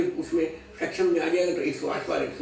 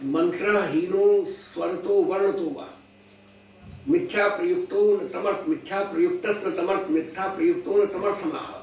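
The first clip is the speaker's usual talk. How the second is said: Sanskrit verse recitation; 2 semitones higher than usual. Acted.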